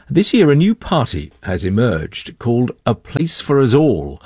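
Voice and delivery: measured news-presenter read with lively emphasis; news introduction. Real, not acted. Presenter leading listeners into an Israeli politics story, news read. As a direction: introduce the story like a radio anchor.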